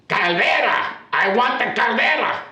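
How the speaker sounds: loud, high mock outburst; hammed-up angry insistence; exasperated demand. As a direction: imitate an irate neighbour demanding service. Upset neighbour demands her water heater.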